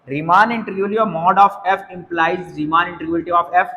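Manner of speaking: very slow, measured reading of the question. Shown as a demonstration. Teacher reading an exam question aloud to students, slowly. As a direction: read the question text out word by word.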